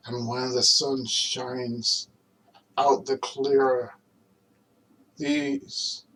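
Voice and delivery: earnest recitation, pausing between phrases; dramatic film monologue. Acted. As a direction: let each phrase land like a solemn speech.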